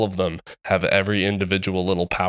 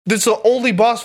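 much higher, laughing through the words; laughing excitedly; 13 semitones higher, 4 dB louder than usual. Real, not acted. Ranting to a friend about the boss fight, laughing. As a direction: giggle your way through the rant.

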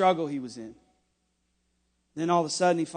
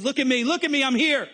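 a touch louder and higher, Jesus calling; 5 semitones higher, 5 dB louder than usual. Acted. Jesus showing himself to Thomas, a touch louder. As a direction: call him over gently but clearly. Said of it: "he says".

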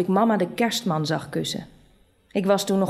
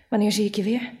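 usual speaking voice

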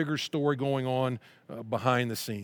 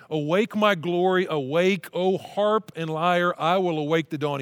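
raised, louder fired-up psalm reading; fired-up, emphatic proclamation; 3 semitones higher, 4 dB louder than usual. Acted. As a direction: read it out like a rousing wake-up call. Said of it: "He's so fired up".

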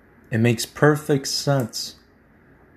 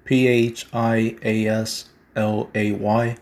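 spelling it out slowly; slower than usual. Shown as a demonstration. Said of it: "Phia Slay".

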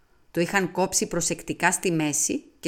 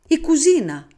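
high, loud burst of discovery; sudden realization; 9 semitones higher, 8 dB louder than usual. A narrator's reading. Detective suddenly solving the puzzle, excited outburst. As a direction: blurt it out as the answer dawns.

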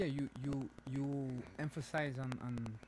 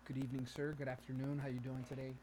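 softer, proper greeting; educated voice; 3 semitones lower, 7 dB quieter than usual. Shown as a demonstration. Co-host greeting a sir to sound educated, proper voice. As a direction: politely enunciate in a soft formal voice. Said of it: "if I talk like this".

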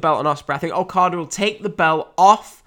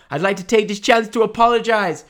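put-on terrible Irish accent, high and loud; over-the-top mock Irish promo voice; Conor McGregor; 9 semitones higher, 5 dB louder than usual. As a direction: do a hammed-up bad Irish brag. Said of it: "Sorry, terrible Irish accent".

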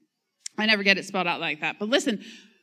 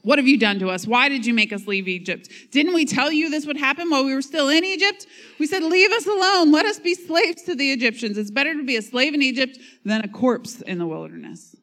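louder, higher, whiny and accusing; preacher voicing the people sassing Moses, raised and whiny; sassy complaining; 6 semitones higher, 4 dB louder than usual. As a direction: play the Israelites sassing Moses. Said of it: "They got a little sassy with him".

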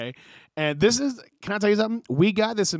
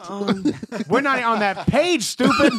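louder, higher, slower mock teacher scolding; 5 semitones higher, 4 dB louder, slower than usual. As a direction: sneer at the kid like a fed-up teacher, a bit louder. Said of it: "and the teacher goes".

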